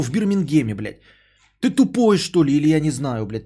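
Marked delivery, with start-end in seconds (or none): 1.6-3.4 angry shout. Real, not acted. Furious rant at a donor.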